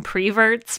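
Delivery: "preverts" with PRE at the front; dialect pronunciation. Retold or imitated. Quoting the film's preacher, "preverts" said with pree-. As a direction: say "preverts", starting pree- instead of per-. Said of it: "he calls them preverts".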